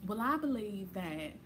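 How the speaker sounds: lightly voiced white Southern woman; white woman impersonation. Student retelling a white classmate's argument in class, lightly Southern impersonation. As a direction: imitate a Southern classmate making her case. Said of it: "this white woman was like".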